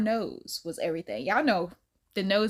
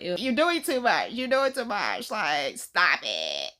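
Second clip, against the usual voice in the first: grossed-out "ew, too much"; 4 dB louder, slower than usual. Pretend. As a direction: push them away, grossed out. Acted disgust at romance.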